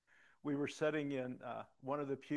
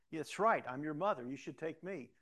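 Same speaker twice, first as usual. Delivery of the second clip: pushy mother; 3 semitones higher, 5 dB louder than usual. Retold or imitated. Mother insists on going.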